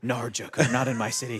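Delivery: Aussie-accented Batman, hammed up; mock Australian accent. Host as Batman warning the Joker, mock Aussie accent. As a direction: warn the villain in a fake Aussie accent. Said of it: "yeah, Australian actor".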